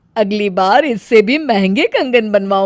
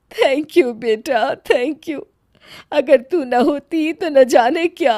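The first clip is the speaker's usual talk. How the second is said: moved thanks; 3 semitones higher, slower than usual. Acted. Grateful mother-in-law, moved.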